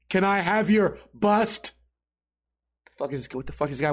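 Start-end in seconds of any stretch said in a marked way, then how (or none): 0.1-1.7 put-on slow, odd little kid asking; odd kid's voice. Strange kid at the game asking for the bobblehead, slow and odd. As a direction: drag the question out like the strange kid. Weird kid asks again.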